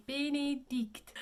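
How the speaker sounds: "Benedict" drawn out slowly with really closed French A vowels. Shown as a demonstration. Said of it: "they're just a really closed A".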